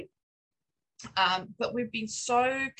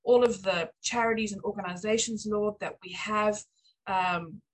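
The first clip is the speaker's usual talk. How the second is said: spoken prayer. Acted. Pastor's wife praying for the church's giving and new home, earnest. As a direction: pray it sincerely to the Lord, unhurried.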